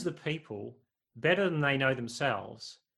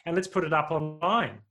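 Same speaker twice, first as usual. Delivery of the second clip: sneering mockery, rising louder; mocking; 3 semitones higher, 3 dB louder, faster than usual. Preacher voicing a God who mocks, sneering scorn. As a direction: scoff at the builders like a cruel onlooker. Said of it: "not an exasperated sigh or even mockery".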